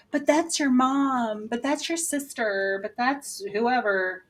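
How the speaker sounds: mildly mock-protesting, drawn out. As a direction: imitate a reluctant objector, dragging the words. Mimics the viewer's objection.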